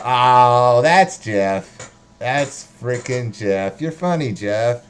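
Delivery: loud, delighted Oh then amused; delighted recognition. Retold or imitated. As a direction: call out happily as a viewer spotting Jeff. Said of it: "then they know".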